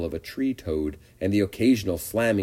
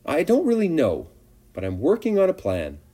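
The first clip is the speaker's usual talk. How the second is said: evasive, trailing, noncommittal; vague; 9 semitones higher than usual. A narrator's reading. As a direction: dodge the question lightly. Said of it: "said Charlotte vaguely".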